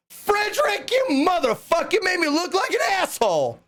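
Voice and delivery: bust his chops, half laughing; mock angry yell. Retelling yelling at Rick for going by Frederick, mock angry. Retold busting friend for name change.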